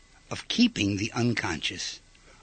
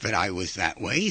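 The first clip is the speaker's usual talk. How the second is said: musing discovery; 6 semitones lower, slower than usual. Retold or imitated. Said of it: "Now you say to yourself".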